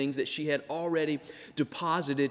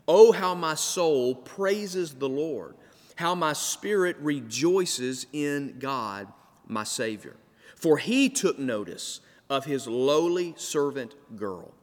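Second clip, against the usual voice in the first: slow, solemn reading of the verse; scripture reading; slower than usual. Acted. Preacher reading Mary's song slowly to the congregation. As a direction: read each phrase slowly, savouring it.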